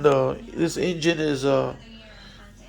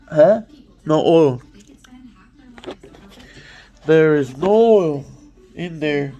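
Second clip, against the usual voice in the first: louder, startled discovery; surprised; 4 dB louder than usual. Real, not acted. Mechanic shocked to find no oil, surprised and louder. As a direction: blurt it out in real surprise. Finds engine has no oil.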